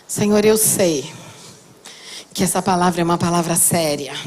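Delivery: voz de oração, mais baixa e lenta. Real, not acted. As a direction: ore devagar, com reverência. Oração final. (pregadora conduzindo a igreja em oração, voz baixa e reverente)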